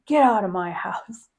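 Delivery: breathy taunting whisper with a laugh; mock-tough whisper to the spirit; cocky mock whisper. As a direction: whisper it like a dare. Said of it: "And then he got cocky".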